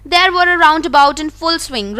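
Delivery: slow, careful read-aloud of the story. A narrator's reading. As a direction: read each word out slowly for the class. Reading the English story text. (धीमी आवाज़ में कहानी पढ़ना)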